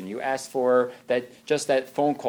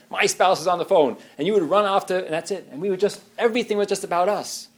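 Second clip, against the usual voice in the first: higher, louder rising lament; hurt spouse; 5 semitones higher, 3 dB louder than usual. Retold or imitated. Neglected spouse complaining to partner, rising hurt. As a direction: plead like a neglected wife.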